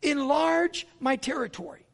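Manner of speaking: lifted, slow pleading prayer; model prayer. Shown as a demonstration. Pastor showing the congregation how to pray. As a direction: lead them in the prayer, slowly. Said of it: "You got to start praying".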